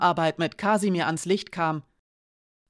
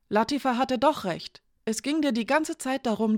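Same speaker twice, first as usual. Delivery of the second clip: put-on higher, disbelieving young woman; Janka's voice; 4 semitones higher than usual. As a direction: voice Janka higher, shaken and accusing. Janka confronts Hiraya.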